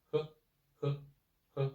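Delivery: he very short and light; just a quick light he; short neutral tone. Shown as a demonstration. Teacher showing the toneless syllable on he. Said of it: "a very short pronounce".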